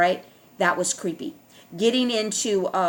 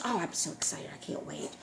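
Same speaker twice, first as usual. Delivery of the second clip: deadpan sarcasm; 13 dB quieter than usual. Real, not acted. Sarcasm after the mocking rant.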